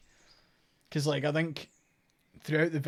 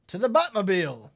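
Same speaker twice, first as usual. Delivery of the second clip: mock heroic; 5 semitones higher, 10 dB louder than usual. Joke echo of game lines.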